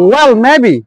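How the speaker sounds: "Well" and "maybe" each up, then down; rise-fall intonation. Shown as a demonstration. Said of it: "Yan dala rajina to folene". (উঠানামা সুরে বলা)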